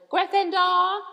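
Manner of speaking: slow, high, loud booming hat; hat shouting. A narrator's reading. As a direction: bellow the house like a magic hat. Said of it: "When it finally shouted".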